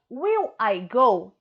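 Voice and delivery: rising question tune on go; question intonation. Shown as a demonstration. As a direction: ask it as a real question. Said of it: "Vocês viram que eu dei, então, a entonação de pergunta".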